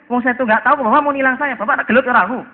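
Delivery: tiruan orang ngotot, nada tinggi; pelanggar ngeyel menantang. Acted. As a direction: tantang polisi dengan suara naik. Pelanggar menantang polisi berkelahi.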